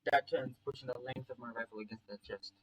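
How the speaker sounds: understated first-person storytelling; story narration. A narrator's reading. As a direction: read the action like an audiobook.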